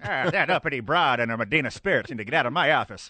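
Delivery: hammy hardboiled detective narration; noir detective voice. Pretend.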